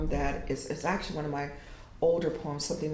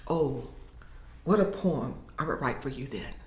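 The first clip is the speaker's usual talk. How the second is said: poem reading. Acted. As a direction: read it like a poet performing her own work. Poet reads her poem aloud.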